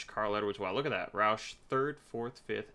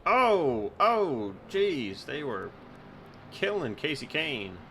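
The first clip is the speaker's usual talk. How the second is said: shocked; 6 semitones higher, 6 dB louder, slower than usual. Real, not acted. Replay shows a brutal crash.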